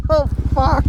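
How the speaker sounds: high laughing curse. Real, not acted. Laughing after crash.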